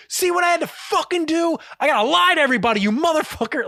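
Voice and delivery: high-pitched mock outburst; Gordon Ramsay. Chef blames prep guy for lying to diners, high mock rage. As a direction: imitate an exasperated chef turning on someone. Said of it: "killing everybody. It's nuts".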